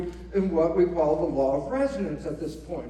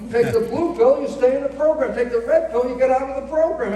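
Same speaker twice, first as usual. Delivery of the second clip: excited; 5 semitones higher, 7 dB louder than usual. Real, not acted. Explaining the pills loudly.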